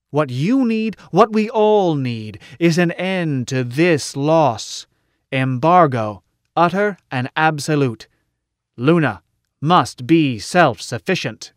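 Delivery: emphatic public speech, pressing key words; an orator warning the crowd with measured force; impassioned orator. Acted. Orator urging the meeting to embargo Terra, emphatic and insistent. Story figure giving a speech.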